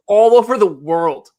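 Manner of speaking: laughing it out in delight; breaking into laughter mid-phrase. Real, not acted. Excited about worldwide merch orders.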